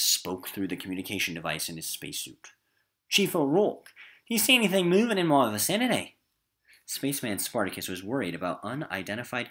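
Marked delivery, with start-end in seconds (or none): 3.1-6.2 voiced character. Teacher voices Spartacus on radio.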